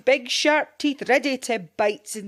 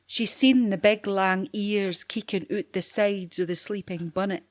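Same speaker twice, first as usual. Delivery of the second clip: usual speaking voice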